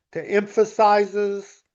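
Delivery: slow down and hit the "-es" in "emphasizes"; stress on the ending. Shown as a demonstration. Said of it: "change emphasize".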